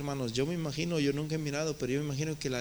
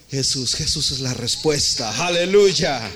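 louder preaching shout; fervent proclamation; 6 dB louder than usual. Real, not acted. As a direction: proclaim it to the whole church. Preacher's climax proclaiming Jesus. (predicador proclamando a Jesús con fuerza)

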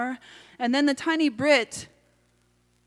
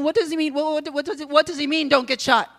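higher, stammered, panicky questions; alarmed questioning; 5 semitones higher, 4 dB louder, faster than usual. Acted. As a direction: stumble over the words in alarm. Alarmed narrator questions the shouted warning.

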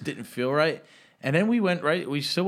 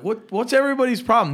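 high-pitched, quick indignant questioning; retold protest, pitch jumping up; 9 semitones higher, 5 dB louder than usual. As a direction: act out baffled indignation. Acting out his bewildered protest.

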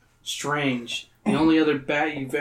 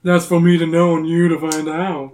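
cold; 3 semitones higher, 7 dB louder than usual. Acted. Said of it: "with a cold laugh".

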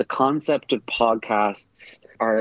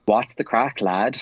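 casual Irish greeting; Irish phrasing. Shown as a demonstration. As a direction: say it like a Cork local. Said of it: "You would say".

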